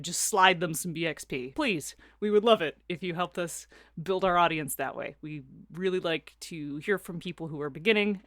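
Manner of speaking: upbeat podcast sponsor read. Acted. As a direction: read the ad cheerfully.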